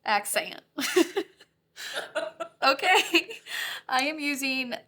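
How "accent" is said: ACCENT bent into "ac-say-ent"; joke signature accent. Pretend. Host joking about her own slip, ACCENT mangled as "ac-say-ent". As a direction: stretch the second vowel of ACCENT. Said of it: "The signature accent".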